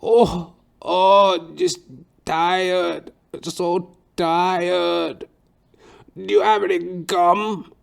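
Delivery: put-on high, loud, drawn-out old man's groan. Barber suddenly groans mid-haircut, high moan. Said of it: "He's like".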